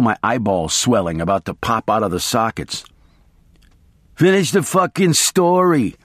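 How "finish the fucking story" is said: higher, snarling demand; snarled. A narrator's reading. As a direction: snap it out, wired and desperate. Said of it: "I snarled".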